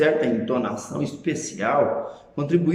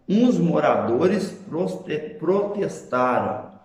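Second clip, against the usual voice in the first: slow example; slower than usual. Shown as a demonstration. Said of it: "Veja, por exemplo".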